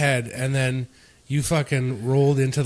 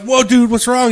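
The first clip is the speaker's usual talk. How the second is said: mock concern; 9 semitones higher, 6 dB louder than usual. Friends fake concern to Steve.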